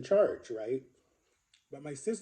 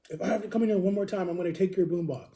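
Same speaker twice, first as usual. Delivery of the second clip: quick, higher imitation of a brother's warning; retold threat; 4 semitones higher, 3 dB louder, faster than usual.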